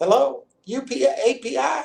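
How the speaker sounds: very high, boozy, tipsy Texas twang. Act out a comedy team's call to a press service, in Martha's Texas twang. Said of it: "she'd come on with her Texas twang".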